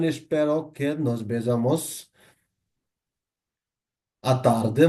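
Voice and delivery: very slow, deliberate model sentence; slow model phrase. Shown as a demonstration. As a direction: stretch each word for learners to copy. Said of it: "অথবা আপনি বলতে পারেন".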